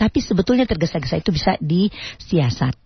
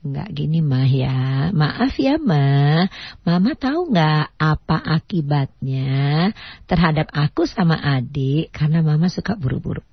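humble and gentle. Shown as a demonstration. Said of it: "Nadanya rendah".

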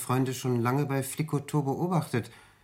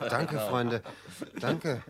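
touched laughing thanks; much slower than usual. Acted. Gerührter Dank, lachend.

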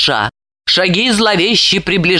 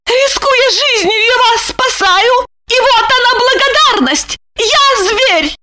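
high indignant outburst; indignant scolding; slower than usual. A narrator's reading. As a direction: pound and scold. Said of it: "приговаривая".

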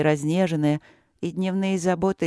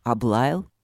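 puzzled question; 6 semitones lower than usual. Acted. Husband baffled by the report.

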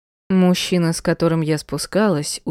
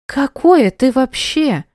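high, slow, loud indignant outburst; 7 semitones higher, 5 dB louder, slower than usual. Acted. Mother outraged at the stranger, indignant. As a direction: spit it out indignantly.

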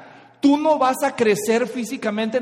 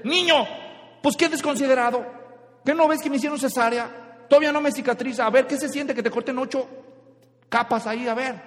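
higher, indignant mom telling off; angry mother scolding; 5 semitones higher than usual. Acted. Mother scolding baby about her cesarean, indignant. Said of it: "La mamá se puede enojar".

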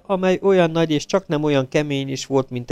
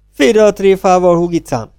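put-on louder, gruff snap at the girl; growled retort; 7 semitones higher, 8 dB louder than usual. A narrator's reading. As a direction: bark it out to shut her up. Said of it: "mordult föl Rocky". (Rocky ráförmed a lányra, hangosan mordulva)

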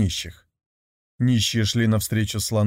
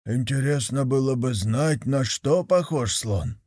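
медленно и раздумчиво, другим голосом; протяни с любопытством; задумчивый нищий. Acted. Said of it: "промолвил". (второй нищий размышляет вслух, задумчиво)

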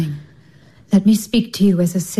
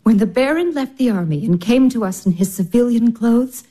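tender whisper; 2 semitones lower than usual. Acted. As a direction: hush her gently with your words. Tender whispered comfort to sister.

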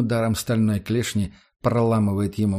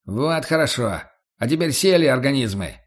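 shouting guard; 3 semitones higher than usual. Acted. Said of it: "орёт один из младших капа".

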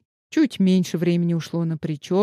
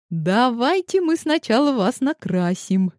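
put-on higher, lightly tipsy girl voice; tipsy girls fluttering; 5 semitones higher than usual. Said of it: "порхали вокруг хозяйки чуть хмельные девчонки".

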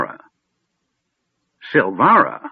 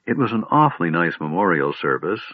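faltering; 4 semitones lower than usual. Acted. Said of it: "Tass faltered".

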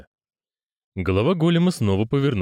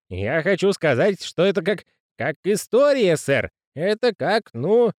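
high halting awed voice; old postman voice; 8 semitones higher than usual. Acted. Grosh voice.

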